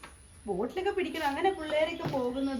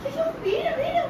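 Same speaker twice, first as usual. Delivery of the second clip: alarmed warning; 13 semitones higher than usual. Real, not acted. Parent warns child about falling, alarmed. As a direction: warn urgently in a much higher voice.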